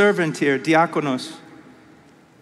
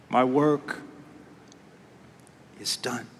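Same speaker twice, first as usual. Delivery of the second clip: fading hush; 5 semitones lower, 6 dB quieter than usual. Acted. Repeat fades to near silence.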